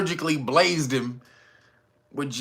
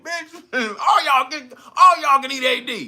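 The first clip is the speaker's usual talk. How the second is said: mock furious rant; 9 semitones higher than usual. Mayor losing it at the crowd, mock furious rant.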